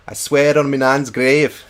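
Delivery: loud, slow Scouse impression; Scouse accent. Streamer trying a real Scouser saying, loud Scouse accent. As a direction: belt it out as a Liverpool Scouser. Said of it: "what's the real Scouser thing to say?".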